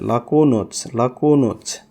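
"লাকুনুস" ending in ch instead of s; C pronounced ch. Shown as a demonstration. Teacher showing final C, "লাকুনুস" ending in ch. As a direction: close "লাকুনুস" on a ch sound. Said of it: "সিরে চ উচ্চারণ করে".

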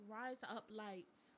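slow attempt at Australian; badly faked Australian accent, drawn out. Shown as a demonstration. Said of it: "say with an Australian".

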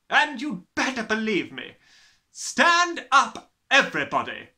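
high, very loud, ranting; tyrannical headmistress. A narrator's reading. Headmistress threatening to expel her class, ranting. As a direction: rant at the pupils at full volume. Voices the headmistress berating pupils.

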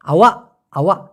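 আওয়া with a long final a, no k at the end; careful pronunciation. Shown as a demonstration. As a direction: show beginners how আওয়া sounds. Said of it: "আমার উচ্চারণটা একটু please শুনেন".

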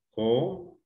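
"Comedor" split co... me... dor, long gaps; syllable by syllable. Shown as a demonstration. Teacher separating the word for the class, syllable by syllable. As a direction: break "Comedor" into three isolated syllables. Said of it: "Separar en sílabas".

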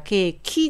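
ケーキ ending in a full "ki" vowel; ケーキ as katakana, final vowel sounded; vowel-final Japanese pronunciation. Shown as a demonstration. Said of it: "母音で終わるのが日本語だから".

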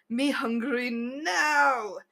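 put-on slow, broken-English growl in a vague Russian-Spanish accent; weird druid accent. Druid faking wolf hunger before the dragon, slow made-up accent. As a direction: drag it out like a starving animal. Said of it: "the voice I made for that druid".

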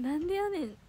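light comedy comeback; tsukkomi retort. Shown as a demonstration. Idol playfully demonstrating her retort for fans. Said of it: "結構言います。".

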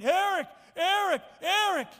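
high loud calls of a name; retold yell. Paralyzed dad calling his son from the bed, high loud yell. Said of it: "he started yelling".

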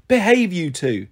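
slow, mild warning. Acted. Hermes scolds his bickering snakes, mildly warning. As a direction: draw it out as a light reprimand. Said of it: "Hermes warned".

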